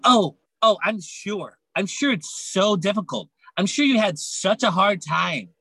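dry sarcasm; mock sympathy; sarcastic. Mocking teacher.

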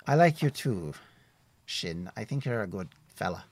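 a cheerful forest ranger chatting; friendly woodsman Tim. Acted. GM voices woodsman NPC.

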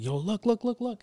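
excited niece. Retold or imitated. Niece excitedly pointing at sky.

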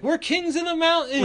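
high-pitched mock victory yell; triumphant cry. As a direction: proclaim it like a kid on top of the world. Kids shouting from atop the deck.

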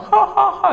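high imitated "ha, ha, ha" laugh; retelling students laughing at him; mocking laughter. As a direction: ridicule with a high fake laugh. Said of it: "mereka ketawa-ketawa".

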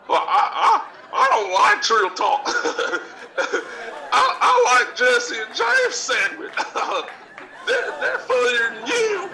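high, giggly nerd voice, mocking him; a hammed-up high-pitched fan, laughing between words; mocking a nerdy fan. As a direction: squeak it out like a snickering geek. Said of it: "then proceeds to tell me".

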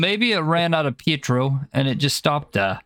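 lightly put-on British accent; mock British at normal pitch. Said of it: "We got a British accent back".

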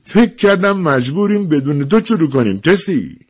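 good-humoured. A narrator's reading. Official to a woman arriving late, good-humoured. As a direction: greet the latecomer with good humour. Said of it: "با خوشخلقی گفت".

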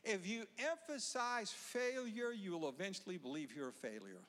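measured preaching, stressing emphasize; sermon delivery. Acted. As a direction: preach it deliberately. Preacher building message.

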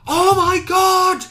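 shrieked very high and loud, slowly, in a put-on voice; over-the-top horrified wail; mock panic scream. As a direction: ham up a terrified shriek. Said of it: "And he doesn't go".

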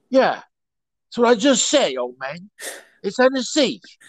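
high, halting Cockney movie voice; hammed-up Cockney with stretched, broken-up phrases; Cockney accent. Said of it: "pretty much how Cockneys talk".

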